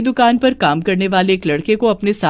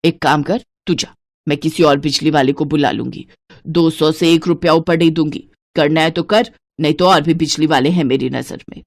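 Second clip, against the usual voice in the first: put-on lower, bossy miserly old woman; lightly lowered stingy mother-in-law voice; 4 semitones lower than usual. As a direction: count every piece like a miser. Santosh haggles.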